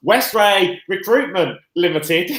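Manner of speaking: "Westray Recruitment" said slowly with w sounds for the r's; says w for r. Real, not acted. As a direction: say "Recruitment" as "Wecwuitment", slow and careful. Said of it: "You kind of said it how I normally say it".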